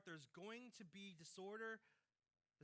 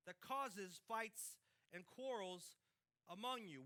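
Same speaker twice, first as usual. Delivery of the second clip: very slow; 2 semitones higher, 3 dB louder, slower than usual. Shown as a demonstration. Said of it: "What is it".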